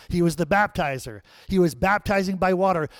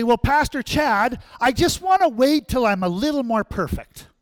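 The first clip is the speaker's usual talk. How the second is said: reluctant churchgoer; 6 semitones higher, 4 dB louder than usual. Retold or imitated. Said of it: "some people say".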